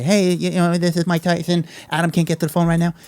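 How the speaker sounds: a lightly voiced famous boxer, barely changed; a half-hearted imitation of a voicemail greeting; Mike Tyson impression. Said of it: "I didn't wanna do impression. That's not a good Mike".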